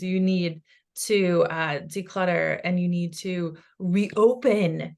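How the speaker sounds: slow, deliberate relayed advice; animated. Retold or imitated. Passing on her father's spirit's advice, slow and deliberate. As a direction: draw each word out like a patient instruction. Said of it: "He's being very animated about this".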